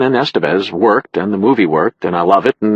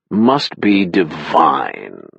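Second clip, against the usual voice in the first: sarcastic; 4 semitones lower, much slower than usual. Acted. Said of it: "in a voice richly marinated in sarcasm".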